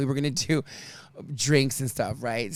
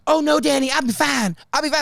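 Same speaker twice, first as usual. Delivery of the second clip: high, a bit louder, breezy refusal; Matt's voice; 9 semitones higher, 3 dB louder than usual. Retold or imitated. Matt declining water from Danny, high and breezy. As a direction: brush off the offer cheerfully.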